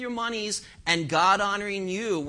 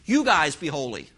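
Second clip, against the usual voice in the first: mock cheerleaders; 4 dB louder than usual. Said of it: "the cheerleaders on the sideline saying".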